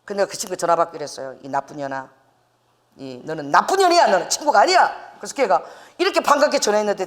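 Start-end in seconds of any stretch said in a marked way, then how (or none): 1.4-4.9 mild mock scolding of an old friend; retold cursing. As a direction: chew out a friend, half in jest. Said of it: "내가 막 이렇게 욕을 했어요".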